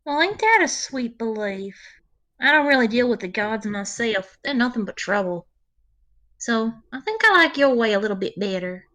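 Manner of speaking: touched, folksy ranger, lightly voiced; Magpie the ranger. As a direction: talk kindly in a folksy in-character voice.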